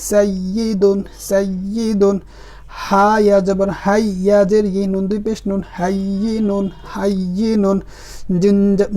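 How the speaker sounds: measured, syllable-by-syllable Arabic spelling recitation; Qaida spelling drill. Shown as a demonstration. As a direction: spell each letter, then join the word deliberately. (কায়দার বানান করে টেনে টেনে পড়া)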